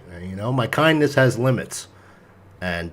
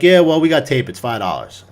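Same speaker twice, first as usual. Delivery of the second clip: mock attitude; 4 dB louder than usual. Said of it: "with a real attitude".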